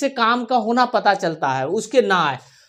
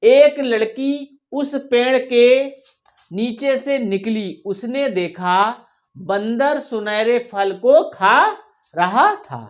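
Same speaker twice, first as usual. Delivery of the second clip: slow, measured story reading; story read to pupils; slower than usual. Shown as a demonstration. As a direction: read word by word for children to follow. Reads sample story to pupils.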